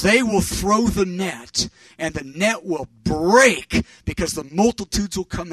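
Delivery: slow, forceful retold prophecy; prophetic declaration. Friend prophesying to the preacher about nets, emphatic declaration. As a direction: proclaim it slowly with weighty emphasis.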